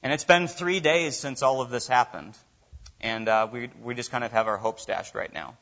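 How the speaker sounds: a touch of defeated sadness; mild dejected Cleopas. Retold or imitated. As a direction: Cleopas telling the stranger his hopes are gone, lightly sad and low. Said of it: "shrugging his shoulders and going".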